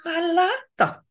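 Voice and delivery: curt brush-off. Retold or imitated. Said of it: "Zeg, scheelt er iets?".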